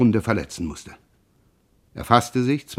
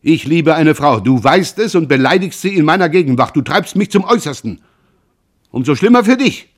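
loud, high furious shouting; 4 semitones higher, 7 dB louder than usual. Acted. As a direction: scream the accusations at him. Jean shouts his threat.

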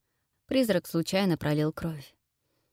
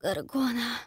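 choked, strained and softer; strangled; 6 semitones higher, 4 dB quieter, slower than usual. Acted. Heroine half-petrified calling to the Gorgon, strangled. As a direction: force the name out through a tight throat. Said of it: "сдавленно произношу я".

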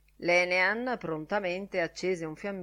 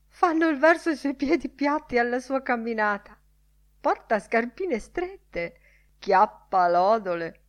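mocking caricature; 5 semitones higher, 5 dB louder than usual. A narrator's reading. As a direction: jeer in a put-on voice, stretching the last words. Lenihan caricatures Bloom's walk.

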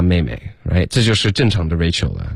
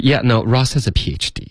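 higher-pitched, mildly dismissive quote; 5 semitones higher than usual. Acted. Teacher quoting Rachel on Ross, mildly dismissive. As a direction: brush it off with light disdain. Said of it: "非常就是排斥的这种语气".

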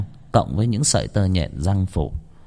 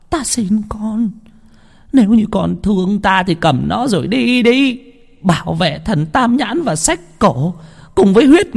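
put-on desperate old woman; 12 semitones higher than usual. Old woman begs Đào to go.

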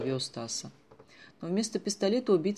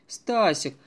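laughing aloud; 3 semitones higher, 7 dB louder than usual. A narrator's reading. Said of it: "уже в голос хохотал капитан".

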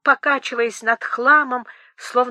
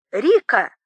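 louder call across the room; 4 dB louder than usual. Acted. Boris calls his companion Rika to look, loud call. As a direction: shout the name to get her attention. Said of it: "закричал Борис Михайлович".

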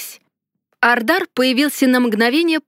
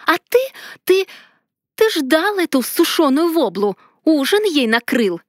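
wailing outcry; 5 semitones higher than usual. A narrator's reading. Heroine screams at the mage about the dinner, higher wailing tirade. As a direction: howl the accusation, building in outrage. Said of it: "возопила я".

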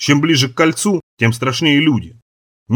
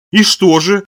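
tearful; 6 semitones higher, 4 dB louder, slower than usual. A narrator's reading. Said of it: "плаксиво спросил Плешак".

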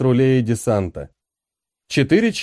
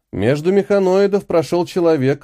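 ordinary delivery

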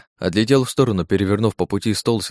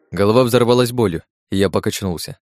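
plain reading voice

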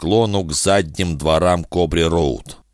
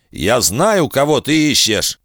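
blurted out; 7 semitones higher than usual. Acted. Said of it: "у него вырвалось".

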